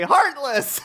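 very high, laughing exclamation; cartoon alarm. Duck and dog spot the enemy, high mock alarm. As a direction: cry out high, nearly laughing. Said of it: "Goofy and Donald say".

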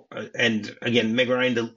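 ordinary delivery

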